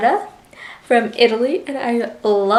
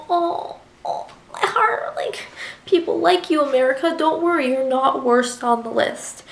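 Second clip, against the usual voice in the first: gushing; 3 semitones higher than usual. Retold or imitated. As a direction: melt over her like she's the sweetest. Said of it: "And I was just like".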